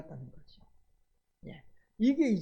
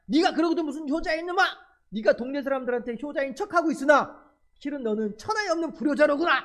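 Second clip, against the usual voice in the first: angry scolding; 2 semitones higher than usual. Retold or imitated. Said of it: "욕을 하는 거예요".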